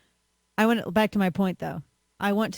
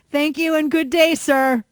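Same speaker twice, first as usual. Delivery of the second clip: high, loud mock-grand farewell; hammed-up politeness; 7 semitones higher, 5 dB louder, slower than usual. Ordering at McDonald's, hammed-up grand thank-you. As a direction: sweep it out like a pompous gent.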